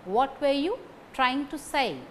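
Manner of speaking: "what", "trying" and "say" stressed. Shown as a demonstration. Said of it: "These words carry stress".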